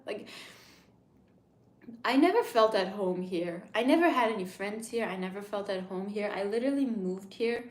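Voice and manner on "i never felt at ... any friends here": loud, emphatic complaint; louder lament. Real, not acted. Streamer lamenting lonely life in Italy, emphatic. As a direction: stress NEVER in frustration.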